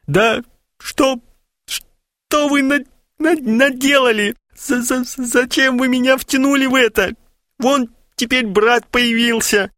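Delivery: high, stammering tearful voice; weeping. A narrator's reading. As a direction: blubber it out through tears.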